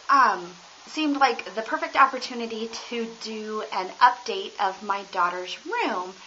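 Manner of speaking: big hall echo; echoing stairwell. Real, not acted. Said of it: "Sorry for the echoing".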